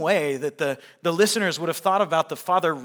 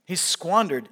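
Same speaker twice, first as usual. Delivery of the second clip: "squandered" punched loud with a falling end; stress on squandered; 3 semitones higher, 6 dB louder, slower than usual. Shown as a demonstration. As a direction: hit "squandered" hard. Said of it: "what a great word, by the way, squandered".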